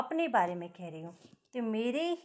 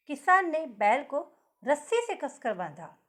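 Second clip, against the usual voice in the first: रस्सी given the weight; stress on रस्सी; 3 semitones higher, 4 dB louder than usual. Shown as a demonstration. Teacher modelling stress on रस्सी for pupils. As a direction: lean on रस्सी, the rope. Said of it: "अब किस पर आ रहा है जोर? रस्सी पर।".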